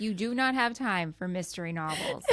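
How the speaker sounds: half-laughing scold. Real, not acted. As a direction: laugh through the words. Laughing rebuke of the character.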